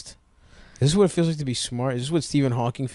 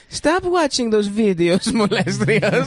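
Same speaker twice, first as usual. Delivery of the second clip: higher, slower scolding through laughter; laughing mock scold; 8 semitones higher, slower than usual. Friend mocks the character, laughing as he scolds. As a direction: scold in a raised voice while cracking up.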